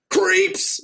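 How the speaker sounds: retold scream. Angry old man at Denny's screaming at the group. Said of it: "he screams at us".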